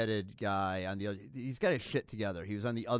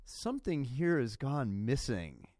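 discreet hint; 5 semitones higher, slower than usual. Shown as a demonstration. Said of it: "You go".

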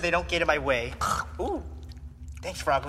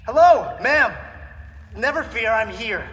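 put-on brash old-fashioned hero bravado; 4 dB louder than usual. Hero arrives to rescue civilian.

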